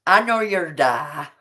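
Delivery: low mock Irish accent. Joining in the accent game, mock Irish accent. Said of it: "an Irish accent".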